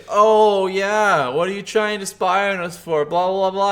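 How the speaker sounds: lightly voiced annoyed woman; mock snippy accusation. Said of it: "she's like".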